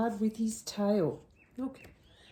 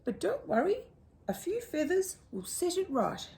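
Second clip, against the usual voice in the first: much higher, airy lady-bird voice; fussy emu; 10 semitones higher, faster than usual. Acted. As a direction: coo it like a genteel emu.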